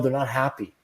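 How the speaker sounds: ordinary talk, nothing marked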